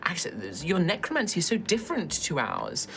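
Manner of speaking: high-pitched, effusive lady scholar; gushing dragonborn woman. Acted. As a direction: gush with affected fascination. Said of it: "you just hear a sort of like".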